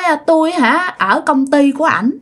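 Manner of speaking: lightly voiced girl; a hint of a girl spirit answering; girl's voice. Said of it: "bây giờ nói giọng con gái luôn".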